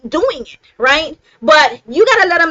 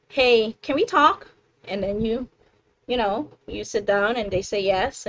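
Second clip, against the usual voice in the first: gentle talk with partner; 3 semitones lower, 5 dB quieter than usual. Acted. Asking her husband gently what he meant, softly. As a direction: ease into it with love, softer. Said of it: "You can say it with love".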